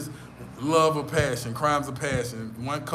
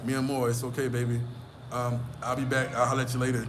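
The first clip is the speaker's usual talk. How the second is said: charming, suave; 3 semitones lower than usual. Shown as a demonstration. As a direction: smoothly let the lover off. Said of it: "you got to be charming and charismatic".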